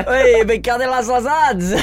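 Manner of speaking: loud, high laddish greeting; laddish cheer. Pretend. Host hailing his co-host's mum on the phone, loud laddish cheer. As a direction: cheer it like a lads' night out.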